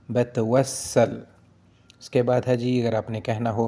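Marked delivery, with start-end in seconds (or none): 0.1-1.2 slow syllable by syllable. Shown as a demonstration. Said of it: "मिता".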